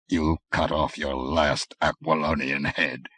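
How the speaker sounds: slow, low, thick with passion; low muttered threat. A narrator's reading. Assassin to his victim, a low muttered threat. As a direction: hiss the final word into his ear. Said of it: "muttered a voice thick with passion".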